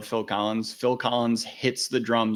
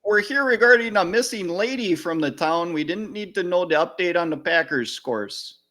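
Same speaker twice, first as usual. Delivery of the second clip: higher, lightly Midwestern cop voice; mock officer; 6 semitones higher than usual. Playing police questioning Ed Gein, higher Midwestern voice. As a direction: question him like a folksy officer.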